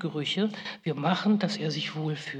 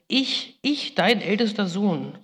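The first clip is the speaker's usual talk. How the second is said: higher, raised cry of a desperate son; retold cry; 4 semitones higher, 4 dB louder than usual. Esau crying out to his blind father, higher and raised. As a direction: cry it up at the father, pitch climbing. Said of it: "schrie er".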